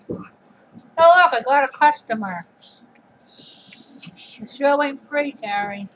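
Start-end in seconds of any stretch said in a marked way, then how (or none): 3.3-5.9 whisper. Pretend. Shoos away a customer.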